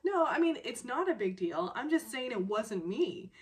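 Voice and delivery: mock-exasperated denial; exasperated insistence. Woman trying to get it into his head, exasperated insistence. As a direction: start high and loud, then insist. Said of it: "still just trying to get this into his head".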